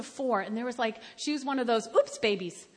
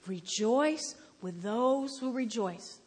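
slow, drawn-out scripture quote; labored recitation; 2 semitones lower, slower than usual. Acted. Scripture read on a horrible day, labored recitation. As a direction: stretch out "Rejoice" and "those".

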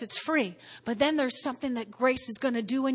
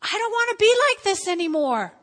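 prayer; 5 semitones higher than usual. Retold or imitated. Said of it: "You simply say".

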